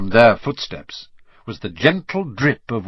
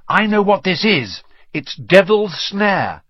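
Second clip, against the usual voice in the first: urgent order; 6 semitones higher than usual. A narrator's reading. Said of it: "Hermione ordered them".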